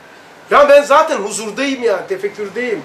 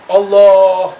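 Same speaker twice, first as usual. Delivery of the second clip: loud drawn-out cry of Allah; retold cry; 8 dB louder than usual. Retelling his first shout in the void, loud cry. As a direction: call out Allah in alarm. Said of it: "diye bağırdım".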